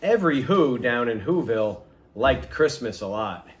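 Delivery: a gentle bedtime storyteller; storybook narration. A narrator's reading. Reading a Christmas story to listeners, warm storybook voice. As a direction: read aloud to children, lilting.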